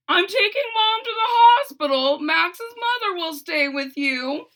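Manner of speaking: loud, high, urgent call. Acted. Father tells Froggy he's leaving, loud and urgent. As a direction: hurry them out, loud.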